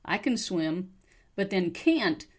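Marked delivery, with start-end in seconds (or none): 0.0-0.9 "can" weakened to "kun"; reduced can. Shown as a demonstration. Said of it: "that can turns into kun".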